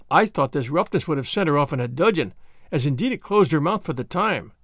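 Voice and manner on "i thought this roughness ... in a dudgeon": usual speaking voice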